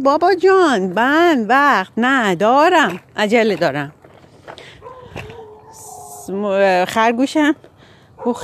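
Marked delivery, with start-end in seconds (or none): 0.0-3.9 exasperated shout. Acted. Squirrel yells at rabbit he has no time, exasperated shout. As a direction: let the patience snap, stretched out slowly. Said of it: "سنجاب دیگه داد زد گفت".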